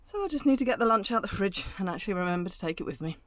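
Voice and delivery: puffing after running; out of breath. Real, not acted. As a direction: talk between breaths. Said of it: "I'm out of breath now".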